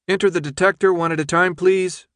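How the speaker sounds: lightly voiced cool official woman; crisp announcement over a speaker; official announcer woman.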